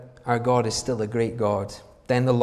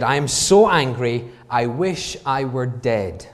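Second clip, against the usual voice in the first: angry Jonah; 5 dB louder than usual. Acted. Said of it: "he said".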